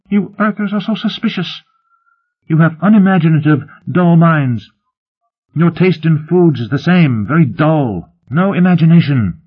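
very high-pitched, indignant alien voice; high, loud, exasperated alien tirade; scornful alien Dreen. Acted. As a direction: scold the humans in a high, insistent voice.

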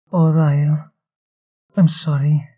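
high, pained sympathy; distressed apology. A narrator's reading. Nishi holds hurting Ryle, distressed apology. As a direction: cry out in sorry sympathy.

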